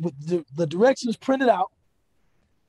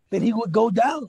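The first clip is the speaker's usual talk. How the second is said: usual speaking voice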